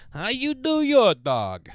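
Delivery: a drawn-out hammed-up character question; mock tough-guy voice. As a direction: lean in slow like a goofy heavy. Mock questioning hot dog fans.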